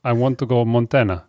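light mock Russian accent. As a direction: greet in a thick Russian accent. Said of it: "I gotta get my Russian accent right".

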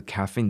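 caffeine with the closing n clearly held; final nasal sounded. Shown as a demonstration. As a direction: finish caffeine on an audible nasal "n". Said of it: "caffeine的嗯要念出来哦".

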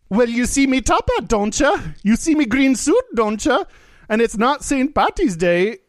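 high, lilting mock Irish; Irish accent. Leprechaun proving he is real to a drunk man, high Irish accent. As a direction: argue it in a hammy leprechaun brogue. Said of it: "an Irish voice".

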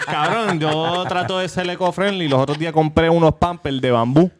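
insistently loud, half in jest; talking loud. Real, not acted. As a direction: push the voice to hold the floor. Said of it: "¿Por qué tú estás hablando tan duro".

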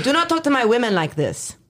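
mock stern boyfriend. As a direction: play his scolding half-jokingly. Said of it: "Or he'd be like".

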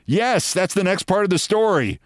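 high, emphatic, amused "yes"; retold amused confirmation. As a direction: pounce on it as if amused. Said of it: "he laughs and says".

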